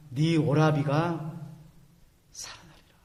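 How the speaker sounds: slow, whispered 살아나리라 trailing into breath; whispered promise. Acted. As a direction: breathe the promise to Martha, slowly. Jesus voiced comforting Martha.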